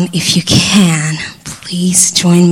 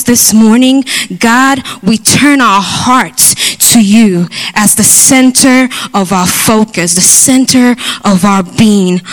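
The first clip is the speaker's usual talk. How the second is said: earnest congregational prayer, building in urgency; fervent prayer; 3 semitones higher than usual. Real, not acted. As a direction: pray aloud with rising intensity.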